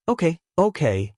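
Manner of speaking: put-on a sweet old nurse; sweet elderly voice. A narrator's reading. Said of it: "comes a sweet elderly voice".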